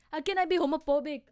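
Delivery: high, loud laughing question; laughing loud shout. Pretend. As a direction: laugh through the line. Apollo voiced, laughing.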